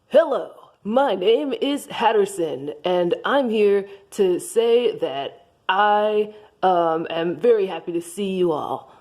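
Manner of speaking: dopey deep voice. Acted. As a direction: play it dim and slow. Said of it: "oh, I forgot my voice".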